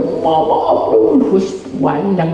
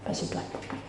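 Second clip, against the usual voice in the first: whisper; 19 dB quieter, much faster than usual. Real, not acted. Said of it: "speaker drops to whisper".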